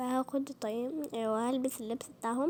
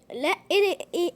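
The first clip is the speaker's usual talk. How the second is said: surprised; 5 semitones higher, 7 dB louder, faster than usual. Real, not acted.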